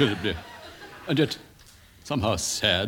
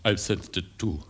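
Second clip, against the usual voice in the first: melodramatic Coward style; 8 semitones higher than usual. Acted. Coward parody continues.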